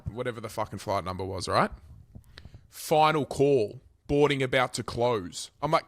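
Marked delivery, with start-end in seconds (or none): 2.7-5.5 airport announcer. Retold or imitated. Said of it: "There's an announcement over the speaker".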